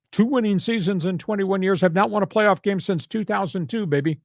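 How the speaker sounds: preachy sports rant; preaching. Real, not acted. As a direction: drive the record home like a sermon. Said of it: "End, end of my statement and preach".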